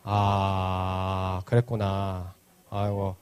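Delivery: low, soft, understanding murmur; sympathetic. Real, not acted. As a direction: take it in gently and low. Sympathizing with a child's upset.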